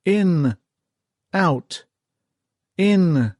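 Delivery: high, loud counted orders; yelled commands. A narrator's reading. Lieutenant counts breaths for the men, loud high shouts. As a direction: call each breath like a drill. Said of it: "yelled the officer".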